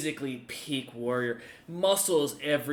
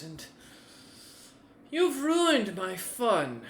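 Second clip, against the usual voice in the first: loud, high-pitched mocking warrior chief; lightly voiced ruthless warlord; gleeful warlord; 3 semitones higher, 4 dB louder than usual. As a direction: relish cruelty with a grin in the voice. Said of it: "as he goes".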